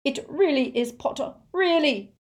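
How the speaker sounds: high-pitched, desperate insistence; frantic victim, high and pleading; sobbing plea. A narrator's reading. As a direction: insist tearfully, begging to be believed. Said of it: "sobbed Xenophilius".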